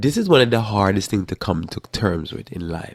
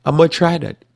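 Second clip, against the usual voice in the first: hopeful resolve; 10 semitones higher, 3 dB louder than usual. Acted. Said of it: "So you say".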